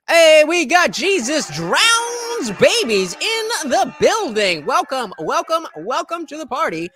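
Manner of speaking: put-on high, loud, slow Jersey girl voice; hammed-up Jersey accent welcome. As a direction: belt it out like a Jersey party girl. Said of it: "this accent".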